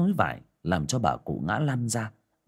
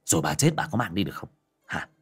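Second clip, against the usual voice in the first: hissing rage; 3 semitones lower, faster than usual. Acted. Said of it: "Gã điên máu mà rít lên".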